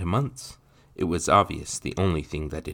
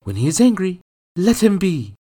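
much higher, steadier plea; calmer mother; 12 dB louder than usual. Acted. Mother calming after barking at her son. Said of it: "Margot barked and then calmed".

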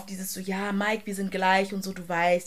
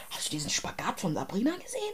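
gossip whisper; 6 dB quieter than usual. Real, not acted. Gossiping about a contestant.

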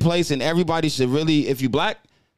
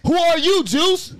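mocking a young kid, much higher and louder; 13 semitones higher, 4 dB louder, slower than usual. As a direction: squeak the question up high like a kid. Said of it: "asked me".

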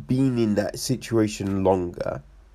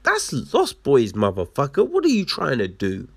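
witch voice; 5 semitones higher than usual. Retold or imitated. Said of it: "And the witch be like".

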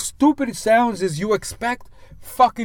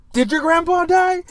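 higher, slow, sing-song question; mock casual texter; 11 semitones higher, slower than usual. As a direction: play the clueless texter asking. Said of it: "ended it with a question mark".

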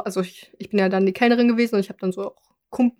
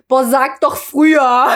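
slow rude complaint; rude snap; 2 semitones higher, 4 dB louder, slower than usual. Retold or imitated. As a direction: make it sound rude and put out. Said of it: "So voll unhöflich".

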